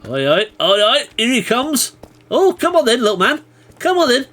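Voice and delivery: loud, high jeering call; taunting shout. Real, not acted. Shouting taunts at a mob coming his way. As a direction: goad the mob to come at you.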